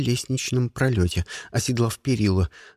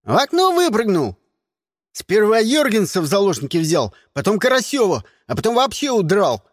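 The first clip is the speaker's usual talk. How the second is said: put-on excited kids; 6 semitones higher, 3 dB louder than usual. A narrator's reading. Excited kids report escape.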